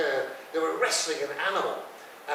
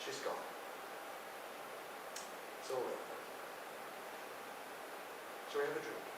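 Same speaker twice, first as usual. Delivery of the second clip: soft, hushed; quiet, stunned father; 14 dB quieter than usual. Retold or imitated. Stunned dad quietly telling his son it's over. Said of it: "He said".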